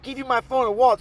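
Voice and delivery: high-pitched incredulous retort; acted indignant question. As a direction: throw the demand back in disbelief. Teller's indignant reply, acted.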